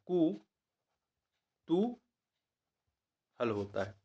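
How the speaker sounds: कुतूहल stretched out for students to write. Shown as a demonstration. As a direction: dictate कुतूहल slowly, holding each syllable. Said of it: "शुद्ध रूप होता है वो कुतूहल".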